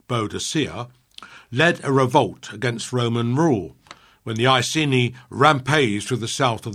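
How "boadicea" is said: Boadicea in the anglicised form; old schoolroom pronunciation. Shown as a demonstration. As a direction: say Boadicea as bo-a-di-SEE-a. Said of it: "known to some of us in our school days as".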